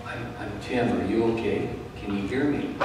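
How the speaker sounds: softly to the fallen woman; calm, hushed reassurance; speaking quietly so she won't panic. Retold or imitated.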